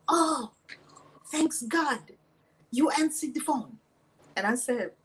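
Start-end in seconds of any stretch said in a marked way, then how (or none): 0.1-3.8 higher-pitched imitation of an Omani accent. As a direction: mimic an Omani man's accented English. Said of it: "He's saying all this in his accent from Oman".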